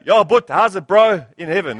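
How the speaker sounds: playful broad South African greeting; joking South African slang accent. Acted. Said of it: "this accent that we have".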